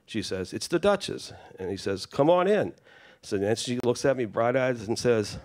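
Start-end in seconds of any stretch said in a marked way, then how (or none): 0.5-1.3 high-pitched retold announcement through a door; announcing herself. 2.1-2.7 high retold call through a door. Louis calls through the door.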